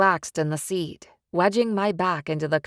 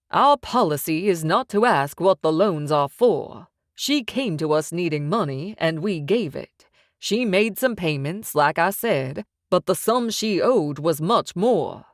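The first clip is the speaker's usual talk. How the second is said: louder, smug loan shark laying down terms; menacing mob boss; 3 dB louder than usual. Acted. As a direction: press the threat with calm confidence. Sykes explains loan terms.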